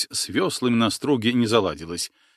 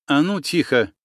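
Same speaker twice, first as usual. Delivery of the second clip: barked order; 5 semitones higher than usual. Acted. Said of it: "рявкнула шаманка".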